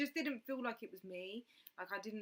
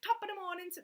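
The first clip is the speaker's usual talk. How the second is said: high, loud mock Irish greeting; playful Irish accent, pitched up; 11 semitones higher, 6 dB louder, faster than usual. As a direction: sing out a hammed-up Irish hello. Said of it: "That is Irish".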